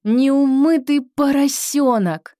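high, loud, slow, punch неумытый; loud stressed insult. Shown as a demonstration. Teacher shows the new insult with force. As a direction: hit неумытый hard and high. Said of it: "Выделяем".

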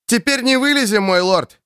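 high call over the noise; shouting. Acted. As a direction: yell it right into his ear. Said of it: "крикнул ему на ухо Кит".

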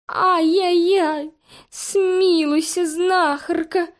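high, slow, crying lament; wailing cat. A narrator's reading. Cat dangling from the window wails to the witch, crying. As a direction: wail and weep for mercy. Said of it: "запричитал Фимка".

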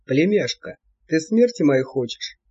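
put-on grumbling old devil voice. A narrator's reading. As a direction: chide his niece, shaken. (ворчливый старый чёрт)

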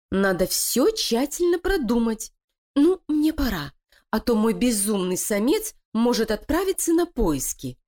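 high, sly voice of a plotting wife; scheming female voice. Acted. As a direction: persuade her partner, cold and cunning. Лилия прощается с Кокосом. (коварная интриганка)

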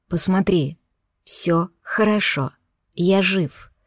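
gently calm her down; reassuring. Acted.

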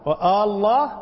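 آه stretched, الله rising like a question; questioning long alef. Shown as a demonstration. Teacher shows it becomes a question, long alef rising. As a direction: hold آه and lift الله. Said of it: "سؤال".

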